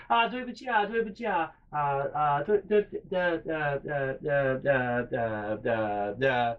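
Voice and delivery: imitated flustered apologizing in Chinese; profuse apology. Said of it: "I start apologizing profusely to this lady".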